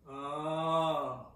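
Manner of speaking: yawny back-placed "oh"; caveman oh. Shown as a demonstration. Voice teacher leading back resonance, caveman oh. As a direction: sound it like a cave dweller. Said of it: "find your cave woman, your caveman".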